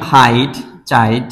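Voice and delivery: slow, careful হাইট, চাইট sounding out the rhyme; drawn-out rhyme words. Shown as a demonstration. Teacher to students, slowly sounding out the rhymes. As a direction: stretch হাইট and চাইট to show they rhyme. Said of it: "এখানে white".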